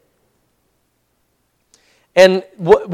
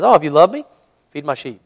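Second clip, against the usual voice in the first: forgiving. Retold or imitated. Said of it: "No, he says".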